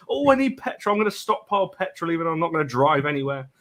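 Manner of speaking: mock panic, starting high and easing down; mock flapping panic. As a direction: imitate someone flapping over nothing. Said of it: "everyone just starts flapping around".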